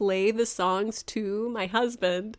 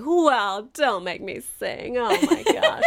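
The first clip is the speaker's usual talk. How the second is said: reluctant; 4 semitones higher, 3 dB louder, slower than usual. Retold or imitated. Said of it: "reluctantly like".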